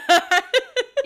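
loud, high burst of laughter. Real, not acted. Laughing while signing off podcast.

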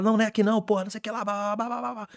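high-pitched mock-flustered babble; hurried quote dissolving into high blah-blah; flustered retold chatter. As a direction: imitate someone fussing on the run, pitched well up. Retelling hurried talk while running upstairs.

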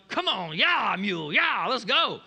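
hammed-up coaxing, come on; urging rider. Balaam urging his stubborn donkey.

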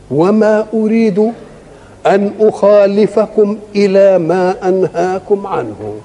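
very slow, drawn-out recitation of the verse; Quran recitation. Acted. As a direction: intone the verse slowly and solemnly. (تلاوة قرآنية بطيئة جدا وممدودة)

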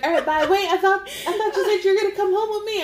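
high, giggly tipsy pleading; drunk woman. Retold or imitated. Tipsy woman at the bar, high and laughing. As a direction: play a giggly drunk who thinks you're coming home. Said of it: "Like I'm drunk".

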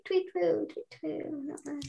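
soft bird tweet. Retold or imitated. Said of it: "the one that goes like".

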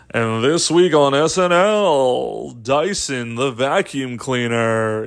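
lightly voiced TV announcer, drawn out; announcer guy. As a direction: stretch the names out like a show announcer. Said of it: "whatever the guy's voice is".

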